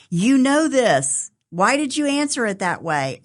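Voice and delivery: insistent mom. Retold or imitated. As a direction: lightly imitate an exasperated quizzing mother. Mom quizzing her, scolding wrong answer.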